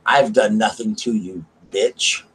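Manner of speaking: slow retort with an insult tacked on; deliberate, spaced-out indignation; retold slow comeback; emphatic protest. Retold quarrel, ends in insult.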